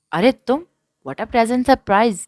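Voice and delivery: high, loud, slow delighted greeting; thrilled to see an old friend. A narrator's reading. Sarhan greeting Noman, delighted. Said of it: "خوش ہوتے کہا".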